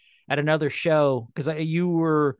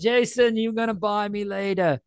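mock Australian accent; 5 semitones higher than usual. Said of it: "That's more an Australian accent".

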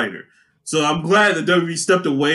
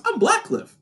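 much higher, silly character voice; put-on voice; 10 semitones higher, 3 dB quieter than usual. Comedian introducing himself as a comic-book hero, put-on voice. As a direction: pitch it way up for a joke hero. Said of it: "Why are you making that voice?".

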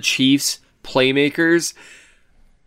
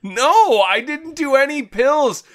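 distorted mic sound; warped slowed-down mic voice; voice changer; 8 semitones higher than usual. Real, not acted. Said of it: "put a straw in a bottle of NyQuil".

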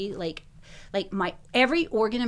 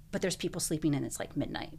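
whispered protest; 2 semitones lower, 7 dB quieter than usual. Retold or imitated. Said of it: "And I go".

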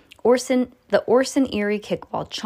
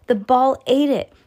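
stunned dismay; 6 semitones higher, 6 dB louder than usual. Acted. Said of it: "Sam thought".

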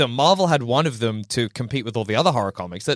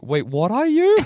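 vampire hunter voice; 7 semitones higher, slower than usual. Retold or imitated. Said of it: "And they're like".

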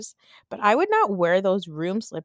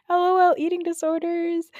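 mock flippant; 11 semitones higher than usual. Real, not acted. Joking about her own bulimia.

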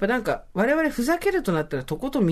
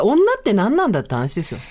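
ordinary delivery

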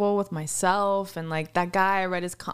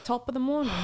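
a clumsy attempt at an Irish accent; a feeble stab at an Irish brogue; bad Irish accent; 3 semitones higher than usual. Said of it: "It's a horrible accent".

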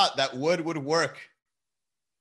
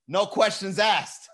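slow, loud, higher teacher shout; mock teacher shout; 5 semitones higher, 4 dB louder, slower than usual. Pretend teacher ordering kids into the booth, slow shout. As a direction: bellow the rule slowly. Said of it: "I'm like".

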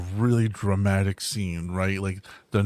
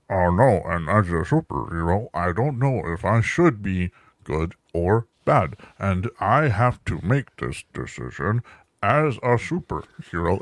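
slightly low, slow hero dilemma; lightly mock a torn superhero; brooding superhero; 3 semitones lower, slower than usual. Mocking the drama's superhero narrator, slow brooding hero. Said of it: "that's what the audio was".

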